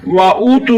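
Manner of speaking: वाऊ टू with the ऊ of टू held for one alif length; elongated madd. Shown as a demonstration. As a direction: stretch the ऊ in टू for one beat. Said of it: "एक अलिफ की मकदार खींच कर पढ़ना है".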